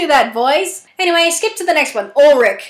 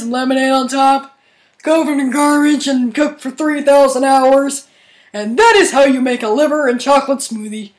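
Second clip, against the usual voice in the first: a hint of a dim starfish; a dopey host closing his show, lightly dopey; Patrick Star voice. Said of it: "Patrick Star voice".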